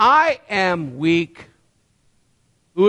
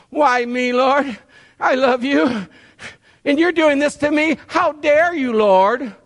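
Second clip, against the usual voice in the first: mock whining complaint; 4 semitones higher than usual. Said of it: "moaning and groaning and complaining".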